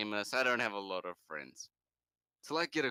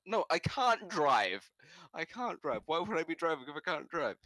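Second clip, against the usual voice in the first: indignant; 7 semitones higher than usual. Retold or imitated. Indignant denial to caller.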